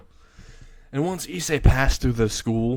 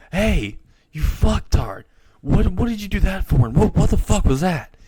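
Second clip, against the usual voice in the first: angry yell; 8 semitones higher, 4 dB louder than usual. Acted. Rhea yells at Issei.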